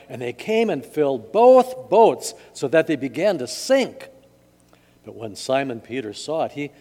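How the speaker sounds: dramatic gospel narration, pausing between phrases; scripture reading. A narrator's reading. Pastor reads of the great catch, dramatic reading. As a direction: tell the Bible story to a congregation.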